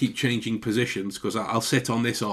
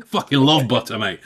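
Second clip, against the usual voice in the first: blunt answer; 7 dB louder than usual. Pretend. Blunt mock direct answer.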